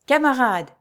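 resounding shout. A narrator's reading. False monk rallies his men, resounding shout. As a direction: call out to the troops at volume. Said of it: "cria-t-il d'une voix retentissante".

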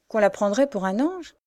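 put-on rising, building rapture over the girl; growing exaltation. A narrator's reading. Boy carried away by his love for the girl, rising exalted voice. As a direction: swept up in praise of her beauty.

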